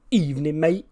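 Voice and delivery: can't believe what he just heard; incredulous question. Acted. Wrestler repeats the rival's greeting in disbelief, incredulous rise. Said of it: "just looks at me and goes".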